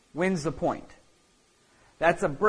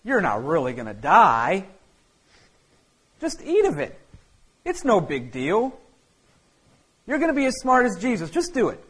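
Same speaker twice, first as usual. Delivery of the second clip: coaxing serpent, lightly voiced, rising higher; tempting serpent; 3 semitones higher than usual. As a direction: wheedle them into it, sly and pushy. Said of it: "The serpent's saying".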